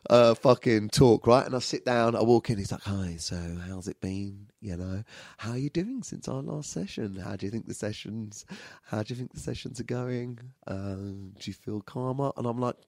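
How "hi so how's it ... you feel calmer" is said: very quiet, gentle counsellor voice; hushed, soothing check-in with a client; soft-spoken therapist. Retold or imitated. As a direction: imitate a calm anger-management counsellor. Therapist voiced at anger management session.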